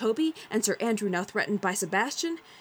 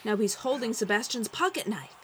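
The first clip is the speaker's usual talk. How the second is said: excited ringside announcer; fight commentary. A narrator's reading. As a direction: call the round like a boxing match. Narrator play-by-play.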